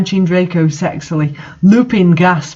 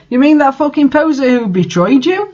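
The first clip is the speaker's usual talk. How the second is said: mild mock anger, pitched higher; angry; 8 semitones higher than usual. A narrator's reading. Vampire scorning the traitor, mild mock anger. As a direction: sneer it with a touch of anger. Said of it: "with anger in his sexy voice".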